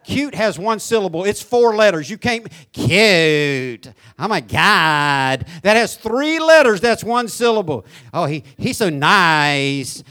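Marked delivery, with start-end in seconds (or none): 2.7-3.9 put-on slow, dragged-out valley girl cute; mock valley girl drawl; fake California accent. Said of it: "nasally talking, dragging out". 4.2-5.4 put-on slow, drawn-out valley girl oh my God; mock valley girl drawl; fake California accent. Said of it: "nasally talking, dragging out". 8.1-10.0 put-on slow valley girl gush; mock valley girl drawl; fake California accent. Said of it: "nasally talking, dragging out".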